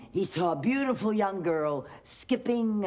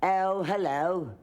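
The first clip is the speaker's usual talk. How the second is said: prince voice, slow. Acted. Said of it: "And the prince said".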